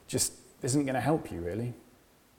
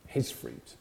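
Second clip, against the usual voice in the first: hushed emphasis on HIS; 7 dB quieter than usual. Acted. Contrast not my fruit, his fruit.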